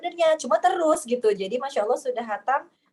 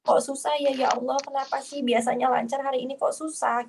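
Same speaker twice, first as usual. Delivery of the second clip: distressed lament; 5 semitones higher than usual. Retold or imitated.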